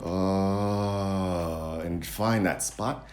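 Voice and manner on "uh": long, steady held "uh"; practice "uh". Shown as a demonstration. Coach telling viewers to find that spot, held "uh". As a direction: sustain an effortless "uh". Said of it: "do the chin down".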